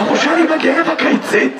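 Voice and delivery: mock strained call; shouting at tadpoles. Comedian as water worker calling out tadpoles, shouting. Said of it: "אתה צעקת על ראשנים".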